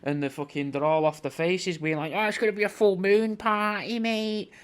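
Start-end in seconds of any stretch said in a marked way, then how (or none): 2.1-4.5 higher, lightly put-on party-goer voice; full moon party said in a lightly put-on backpacker voice, pitched higher; mock backpacker voice. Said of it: "But they wouldn't be speaking like that".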